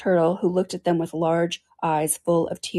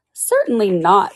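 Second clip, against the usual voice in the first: slow, loud, offended; Alice offended by the question about washing; indignantly; 2 semitones higher, 6 dB louder, slower than usual. Acted. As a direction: bristle at the question. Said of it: "said Alice indignantly".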